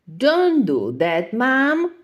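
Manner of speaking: put-on a kid embarrassed by his mother; Snappy protesting. A narrator's reading. Snappy scolds his mom.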